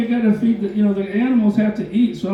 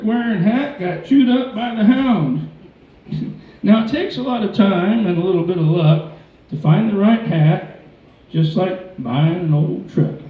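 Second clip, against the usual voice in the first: cowboy poetry. Acted. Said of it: "It's called The Black Hat".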